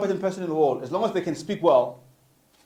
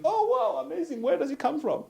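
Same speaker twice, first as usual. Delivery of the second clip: much higher, gushing wow, imitating impressed listeners; mock amazement; 10 semitones higher, 6 dB quieter than usual. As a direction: play the dazzled listener, voice shooting way up. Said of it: "and people think".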